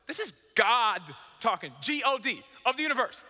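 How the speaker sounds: a sudden preacher's shout; preaching shout. Real, not acted. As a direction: shout it to the back row. Stressing God's authority to congregation.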